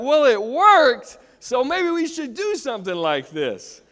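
mock reader's reasoning. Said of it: "they're like".

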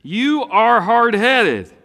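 high, loud, slow scolding parent; a parent scolding a stubborn child; mock scolding. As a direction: wag the finger and drag out every word. Mimics scolding mama or teacher.

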